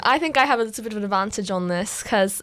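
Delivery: casual attempt at a British accent; put-on British accent. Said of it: "Should we talk in British accents".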